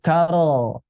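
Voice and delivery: 'Karo' with the r released into an o; bouncing ro. Shown as a demonstration. Teacher isolates the first mistake, bouncing ro. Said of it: "ro-nya mantul".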